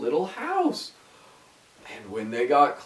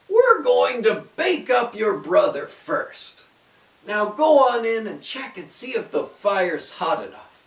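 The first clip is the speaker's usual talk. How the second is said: high, loud sly witch; scheming witch; 6 semitones higher, 5 dB louder than usual. A narrator's reading. Witch orders Gretel to check the oven, high and loud. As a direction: lure her toward the oven. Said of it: "she said".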